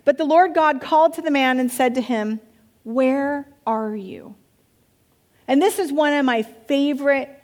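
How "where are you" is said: slow, drawn-out calling question; slow seeking call from God; God calling out, slowly. Acted. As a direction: call it out slowly and let it fall. God calls to the hiding man.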